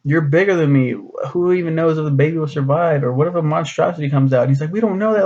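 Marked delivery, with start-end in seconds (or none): 0.0-4.4 higher, hammed-up fretful pleading; a light parody of a worried girlfriend, rushing at the end; mock Judy. Mocking Judy defending her choice to Nick, higher and fretful. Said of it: "She's like". 4.7-5.2 much higher, hammed-up alarm; mock panic. Mocking Nick panicking at Judy's fears, much higher. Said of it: "freaking the fuck out".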